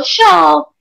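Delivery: an Argentinian sho; Argentinian accent. Shown as a demonstration. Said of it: "They're the only ones that go".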